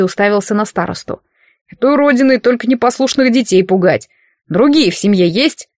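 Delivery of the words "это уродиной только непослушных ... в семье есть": lightly voiced commander, dismissive; a hint of a haughty officer; commander's voice. (слегка пренебрежительный командир)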